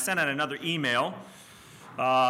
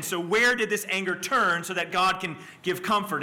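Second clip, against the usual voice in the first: raised, driving sermon voice; impassioned preaching; 6 semitones higher, 3 dB louder than usual. Acted. Preacher asking the congregation where God's anger went, impassioned preaching. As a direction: press the question on the congregation.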